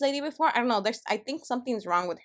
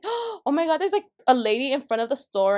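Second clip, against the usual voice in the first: retold alarm; 3 semitones higher than usual. Acting out alarmed report of collapsed lady.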